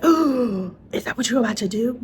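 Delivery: lightly put-on nosy viewer; surprised viewer. Viewers questioning her December plan, mock surprise. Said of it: "some of y'all are gonna be like".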